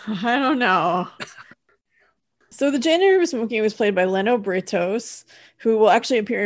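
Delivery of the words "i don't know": slow, laughing I don't know; a bemused, laughing shrug of a line. Real, not acted. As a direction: chuckle through the words.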